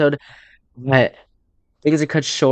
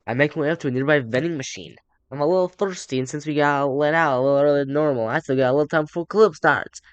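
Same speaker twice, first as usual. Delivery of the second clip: put-on light Western accent, a little raised in pitch. Reading game narration to viewers, light Western accent. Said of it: "I'm talking Western accent".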